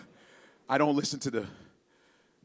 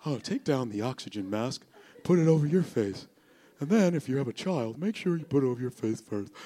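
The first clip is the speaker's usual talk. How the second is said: mock calm. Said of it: "everybody's so mellow and calm".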